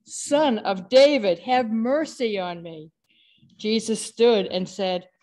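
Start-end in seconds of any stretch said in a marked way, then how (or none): 0.1-2.9 louder call, slower on Son of David; a beggar pressing harder to be heard; crying out louder. Acted. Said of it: "he cried even more loudly".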